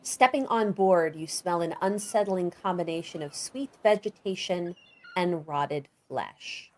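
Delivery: game master's descriptive narration; measured storyteller's delivery; scene setting. A narrator's reading. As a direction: paint the scene, stressing the vivid words.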